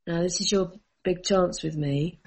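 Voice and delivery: a lightly voiced stern warning, kept low; dead serious. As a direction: lay down the law, calm and grave, only a hint of sternness. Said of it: "in all seriousness".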